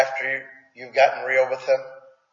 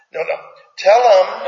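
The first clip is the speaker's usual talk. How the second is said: laughing exasperation; 6 semitones higher, 7 dB louder than usual. Real, not acted. Retelling repeated insisting, laughing.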